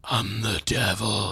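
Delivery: slow, gruff Batman growl. Pretend. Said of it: "it's like Batman voice".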